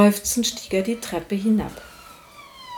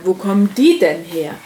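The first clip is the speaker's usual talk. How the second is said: wondering; 7 dB louder than usual. A narrator's reading. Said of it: "staunte der Meister".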